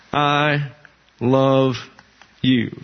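I love you, spaced out, love leaned on; slow broken I ... love ... you; stress on you. Shown as a demonstration. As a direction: demo of misplaced emphasis. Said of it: "if the emphasis is on the object".

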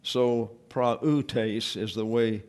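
prautes drawn out slowly in three syllables; slow careful prautes. Shown as a demonstration. Teacher modelling prautes slowly, carefully. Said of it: "that is to be pronounced".

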